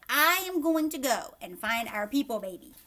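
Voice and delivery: put-on high, excited child's voice; bossy little girl. Kristen announcing her plan to the family, high and eager. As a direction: announce it like a proud little sister. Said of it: "She's like".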